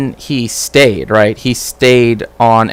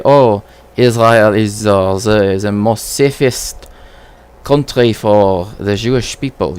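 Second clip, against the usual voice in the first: slow, lightly put-on Israeli accent; a hint of an Israeli accent, mocking. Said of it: "Killing it with the accents".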